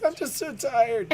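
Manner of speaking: high, slow mock-weary kid voice; tired daughter imitation. Co-host imitating the tired daughter, high put-on weary voice. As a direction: play a worn-out daughter, drawn out and high. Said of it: "She goes".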